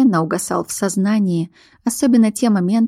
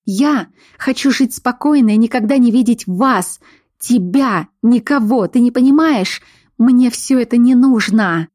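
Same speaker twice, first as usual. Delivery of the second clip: higher, louder desperate protest; upset heroine; 4 semitones higher, 4 dB louder than usual. Acted. Heroine refuses the werewolf, rising and loud. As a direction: push back at him, voice rising.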